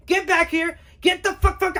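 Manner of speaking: high, loud no-no-no; shouting homeowner. Acted. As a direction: yell him back to the door. Homeowner yells after him.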